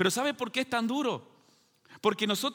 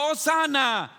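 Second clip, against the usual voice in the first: imitating the crowd's cry, a little higher; mild imitated shout; 4 semitones higher, 3 dB louder, slower than usual. Preacher acts out the crowd welcoming Jesus, mild mock shout. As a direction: call it out like a cheering crowd, half-strength. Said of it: "¿Y qué estaban gritando?".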